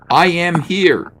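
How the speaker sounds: slow, loud booming line; overacted divine answer; mock god voice. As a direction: proclaim it like a hammy deity. Voicing a god in the comic.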